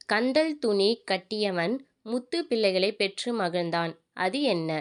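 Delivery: slow, measured riddle reading; riddle recital. Acted. Narrator posing a riddle to viewers, slow recital. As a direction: pose it slowly, word by word.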